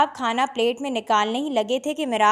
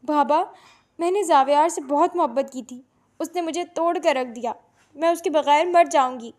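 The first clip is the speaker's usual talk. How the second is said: tearful; 3 semitones higher than usual. Acted. Heartbroken daughter threatening herself.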